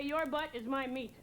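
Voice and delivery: slow, measured threat; lightly voiced angry mom; mom's threat. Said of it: "she would say".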